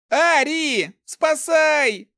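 high, loud cry for help; yelling at full throat. A narrator's reading. Thief calling Ari to save him, screaming. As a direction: scream out for rescue. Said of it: "заорал во всё горло воришка".

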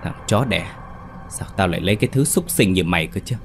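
a hint of a scorned wife's rage; mock furious rant. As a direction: spit the insults at him. Lan turns on Sĩ furiously.

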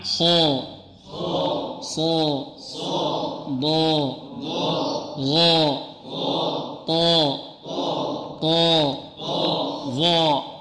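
each heavy letter sounded on a long a, one at a time; تفخيم الحروف; demo of letter sounds. Shown as a demonstration. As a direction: model each letter slowly with a pause. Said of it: "نطبقها جميعًا".

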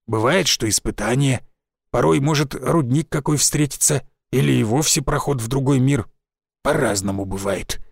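lightly voiced old village forester; a folksy old woodsman, a touch rough.

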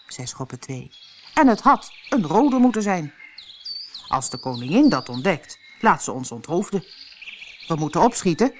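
a nervous playing-card gardener pleading fast; anxious gardener. Gardener explains the white roses to Alice, anxious and loud. Gardener Schoppe two speaks.

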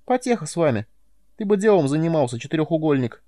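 high squeaky scolding voice; shrill-pitched little creature telling off her superior; squeaking Nelka. A narrator's reading. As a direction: squeak it back in scornful irritation. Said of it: "пищала Нелка".

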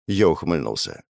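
usual speaking voice

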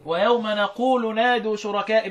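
نقول begun with an n sound; Hamza's reading with nun. Shown as a demonstration. Teacher showing student Hamza's reading, نقول with nun. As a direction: recite نقول with a clear initial nun, drawn out. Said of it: "يعني فضل يقرأها بالإيه؟".

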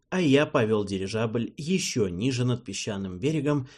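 ordinary delivery, nothing marked

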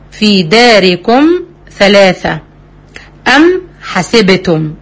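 slow recited examples; Quran recitation. Shown as a demonstration. Teacher reciting examples of the rule, slow. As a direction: recite each phrase slowly and clearly. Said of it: "كل دي أمثلة للإظهار الشفوي".

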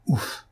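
short puffed-out sigh of relief. A narrator's reading. Dosia finishing her long list, sighing. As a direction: let out an "ouf" as the list ends. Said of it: "termina cette nomenclature par un soupir".

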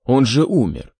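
stammering through a cough; words broken by coughing. Acted. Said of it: "подавился и зашёлся кашлем".

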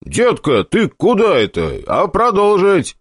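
high indignant complaint. Acted. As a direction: protest it, outraged. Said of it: "возмутился я".

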